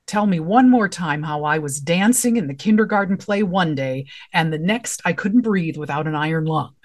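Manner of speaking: sarcastic. Shown as a demonstration. Playwright reading a polio survivor's line, dripping sarcasm. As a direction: drip sarcasm on every word, fed up. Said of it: "that is a line that's dripping with sarcasm".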